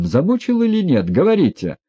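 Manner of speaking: high, loud, demanding; trembling command. A narrator's reading. Ippolit demands an answer from Yevgeny Pavlovich, high and commanding. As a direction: order him to speak, voice shaking. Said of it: "дрожал и приказывал Ипполит".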